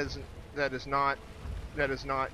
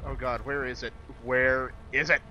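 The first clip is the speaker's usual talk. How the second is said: panicked; 5 dB louder than usual. Real, not acted. Panicking at an unseen monster.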